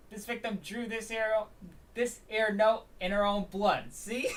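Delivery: slow, high, hammed-up Brooklyn detective; retried Brooklyn accent. Detective presenting the victim's note, exaggerated Brooklyn accent. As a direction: push the Brooklyn accent harder. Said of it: "I need to get the broken accent".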